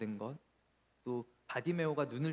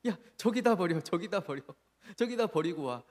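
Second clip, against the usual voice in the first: retold scolding; 3 dB louder than usual. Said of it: "윽박지르고".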